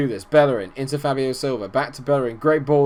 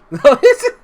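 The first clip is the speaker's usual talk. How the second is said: high, loud burst of laughter; exasperated laugh; 10 dB louder than usual. Real, not acted. Gamer laughing at his own frustration, exasperated laugh. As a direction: laugh it off in despair.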